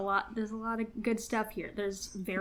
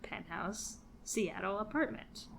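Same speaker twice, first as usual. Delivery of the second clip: sleazy salesman; 6 dB louder than usual. Pretend. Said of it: "can you please do this in a real estate voice".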